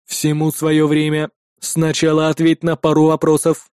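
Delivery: a machine weighing whether to save him; cold android voice. Acted. Android delays coldly.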